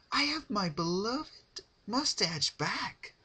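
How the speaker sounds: high, loud silly voice; playful Pinkie. A narrator's reading. Pinkie wearing the tail as a mustache, high silly voice. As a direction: play the goofy joke high and bright.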